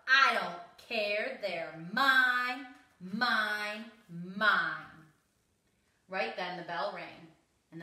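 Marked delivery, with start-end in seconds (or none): 0.1-5.1 loud, drawn-out defiant yell. A narrator's reading. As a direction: yell it slowly, punching every word. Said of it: "the Minosaurus yelled".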